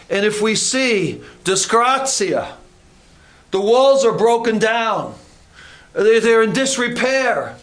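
preaching. Acted. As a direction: preach it with growing force. Preaching builds up.

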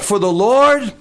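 rallying cry with drawn-out key words; battle cry. Acted. Gideon tells his men what to shout, measured battle cry. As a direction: call it out slowly to the troops, leaning on LORD. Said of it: "here's what I want you to shout".

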